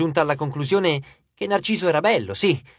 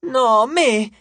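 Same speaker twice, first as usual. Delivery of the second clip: high, pleading fangirl yell; eager, squealing demand; shouting; 6 semitones higher, 4 dB louder, much slower than usual. A narrator's reading. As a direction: cry out high over the rival fans. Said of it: "gridò un'altra ancora".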